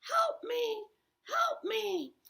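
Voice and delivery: grandma calling out from below; mock call for help. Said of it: "shouting from the basement".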